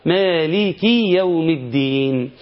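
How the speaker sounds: slow recitation with a surplus long ee after the kaf of مالك; added ya. Shown as a demonstration. Teacher imitating a reciter's slip in the verse, extra long ya. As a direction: stretch مالك into maliki with a long extra ya at the end. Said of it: "هيقوم يضيف ياء".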